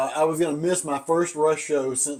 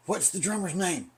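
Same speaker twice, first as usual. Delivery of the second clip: imitated girlfriend; 4 semitones higher, 3 dB quieter than usual. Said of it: "called me and said".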